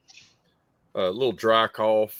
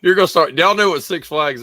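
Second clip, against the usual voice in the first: louder, higher, through laughter; laughing loudly; 9 semitones higher, 10 dB louder than usual. Real, not acted. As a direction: blurt it out mid-laugh. Teasing friends, laughing.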